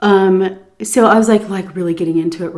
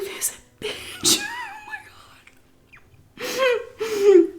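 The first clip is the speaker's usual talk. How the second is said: words breaking into laughter; can't hold back the laugh; laughing in disbelief; 4 dB quieter, much slower than usual. Real, not acted. Laughing at employer's rudeness.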